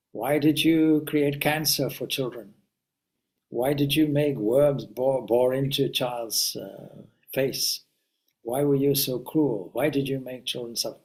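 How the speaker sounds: understated outrage, voicing someone else; impassioned accusation. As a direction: retell the challenge with restrained indignation. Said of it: "I feel very emotional about it".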